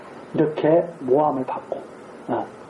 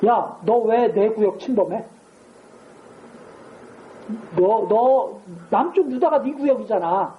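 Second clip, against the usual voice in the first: mock threat; 2 semitones higher, slower than usual. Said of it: "이렇게 협박하는 거예요".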